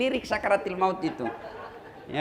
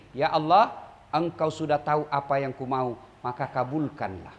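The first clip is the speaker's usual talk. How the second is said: low, soft and fading prayer; quiet humble prayer; 9 semitones lower, 6 dB quieter than usual. Shown as a demonstration. Preacher shows the congregation a simple prayer, soft and hushed. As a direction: pray it humbly, letting it sink to near silence. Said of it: "boleh ibu berdoa begini".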